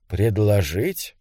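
low, slow, uncertain echo question; hesitant query. A narrator's reading. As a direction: ask back softly and unsurely, drawing it out. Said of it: "неуверенно переспросил он".

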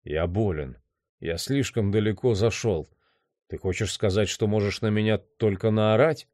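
subdued, aggrieved sick voice; sick, weary man. Acted. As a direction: protest weakly, feeling ill.

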